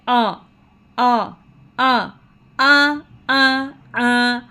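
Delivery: "आ" said alone, then held long and level; fatha vowel demo. Shown as a demonstration. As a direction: model "आ" repeatedly as a sustained vowel. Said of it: "फतहा की sound है". ("आ" को अलग-अलग, लंबा खींचें)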